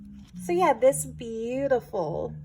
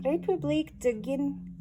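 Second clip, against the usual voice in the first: République de Guin- said in French, rolled R, nasal French vowels; French immersion accent; 4 semitones higher than usual. Real, not acted. Vlogger reading a French stamp label, in a French accent. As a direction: read the label like a French class pupil. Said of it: "pronounce it with my French immersion accent".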